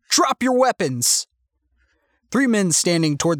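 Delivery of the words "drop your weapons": high, slow shouted order; shouted command. A narrator's reading. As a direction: draw out the order in a raised, high voice. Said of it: "he shouted".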